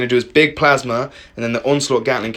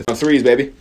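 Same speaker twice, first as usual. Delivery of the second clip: loud gung-ho soldier; 4 dB louder than usual. Acted. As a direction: shout a military hooah. Cheering good dice.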